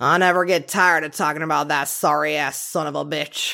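put-on Texas accent. Quoting what a prosecutor told a reporter 35 years after the case, in a made-up accent. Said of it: "I'm really just making up this accent".

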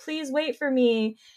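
put-on sad voice. Acting out a drawn character left behind by his brothers, mock-sad pleading Gantor voice. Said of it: "And he's like all sad".

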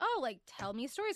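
ordinary talk

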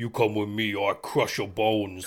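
stereotypical thick-headed brute troll voice. A player recalls how they voiced their troll character, in a dumb troll voice. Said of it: "very dumb troll type voice".

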